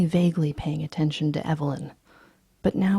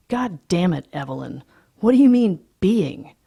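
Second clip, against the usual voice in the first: angry shout; 7 dB louder than usual. Acted. Patrick yelling at Evelyn over being called lunatic, loud. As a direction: snap back furious.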